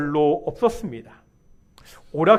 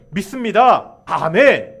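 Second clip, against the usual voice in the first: louder, punched-out church cry; mock fervent shout; 5 dB louder than usual. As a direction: shout it like an empty profession of faith. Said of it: "이렇게 소리치는 것이 아닙니다". (크게 외치는 신앙 구호 흉내)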